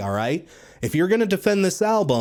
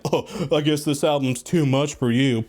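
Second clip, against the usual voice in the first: lightly put-on condescending sneer; snide mock voice; 2 semitones lower than usual. Mocking snide fans who say the album is too much, sneering lightly. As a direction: parody a smug know-it-all fan. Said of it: "all you snide motherfuckers who are like".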